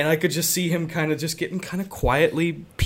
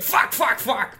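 under-breath curse; 7 semitones higher, slower than usual. Retold or imitated. Cursing after hanging up.

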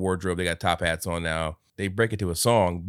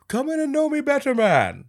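Will Ferrell impression; 4 dB louder than usual. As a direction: boom it out like a jolly ghost. Line repeated.

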